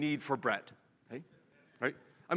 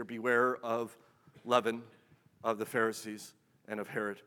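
hushed warning; 8 semitones lower, 7 dB quieter than usual. Acted. Preacher recalling the ignored warning, low and hushed. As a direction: drop the warning to a low, soft hush.

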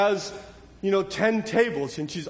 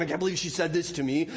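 aggrieved; 3 semitones lower, 4 dB quieter, faster than usual. Retold or imitated. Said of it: "chew on that over and over".

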